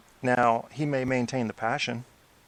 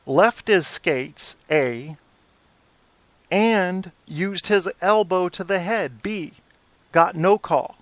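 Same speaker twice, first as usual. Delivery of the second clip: indignant; 6 semitones higher, 3 dB louder, slower than usual. Real, not acted. Angry recap of missed call.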